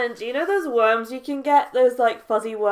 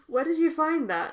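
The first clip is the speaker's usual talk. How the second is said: asked through a real laugh; amused question, laughing through it; 5 semitones higher than usual. Real, not acted. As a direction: let the laugh break into the question. Asks again, laughing.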